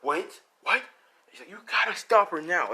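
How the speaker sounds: ally urging Deku to chase, loud and high; alarmed urging. Acted. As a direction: push him to act, fast. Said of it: "And Jake's like".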